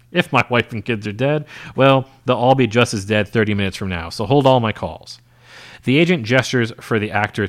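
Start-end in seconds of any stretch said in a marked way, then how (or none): 0.1-2.9 laughing through. Real, not acted. Narrator laughs mid-line.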